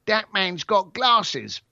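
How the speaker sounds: a hint of a blunt little kid; pointing child. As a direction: imitate a child pointing someone out, words drawn out. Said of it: "what do kids do? They point".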